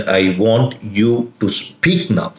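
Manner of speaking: slow, weight on "speak"; slow down and press on "speak"; stress on SPEAK. Shown as a demonstration. Officer to a convict not speaking, stress on "speak". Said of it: "the emphasis will be the word speak".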